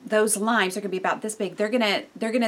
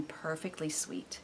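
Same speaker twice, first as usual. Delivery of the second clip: savoring whisper; 4 semitones lower, 14 dB quieter, slower than usual. Real, not acted. Savoring ripe oranges.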